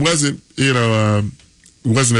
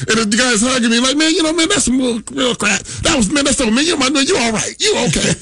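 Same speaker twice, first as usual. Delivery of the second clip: imitating Jerome; 11 semitones higher than usual. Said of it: "He's like".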